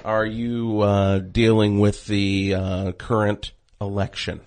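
fake radio voice. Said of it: "knock off the fake radio voice".

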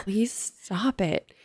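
whispered, begging him to stop; hushed plea, drawn out; pleading whisper. Retold or imitated. Whispering to her egg-faced brother, pleading.

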